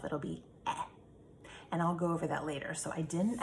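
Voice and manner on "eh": eh said as a short open e sound. Shown as a demonstration. Teacher showing students the short e sound eh. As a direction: give eh as a clipped short vowel. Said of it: "if we have the E by itself".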